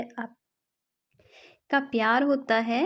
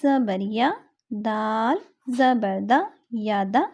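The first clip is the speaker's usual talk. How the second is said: slow spelling drill; slower than usual. Shown as a demonstration. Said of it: "next ہم پڑھیں گے".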